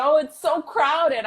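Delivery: lightly voiced local. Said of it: "And they said".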